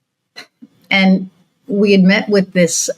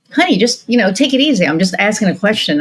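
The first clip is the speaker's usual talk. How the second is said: patronizing man; 3 semitones higher than usual. Retold or imitated. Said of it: "he goes".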